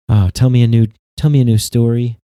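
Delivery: put-on loud, childish plea for a bedtime story; hammed-up whiny plea; mock pleading. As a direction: beg like a kid wanting a story. Mocking voters begging for comfort.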